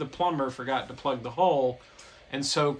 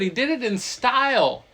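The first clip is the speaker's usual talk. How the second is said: ordinary talk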